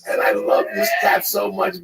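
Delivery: high, loud laughing fit through the words; cracking up. Real, not acted. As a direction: struggle to talk through real laughter. Cracks up telling cat story.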